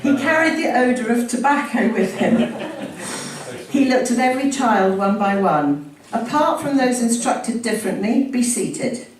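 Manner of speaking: emphatic, deliberate public reading; story narration. A narrator's reading. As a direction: read it out to the room with relish. Reads memoir aloud to audience.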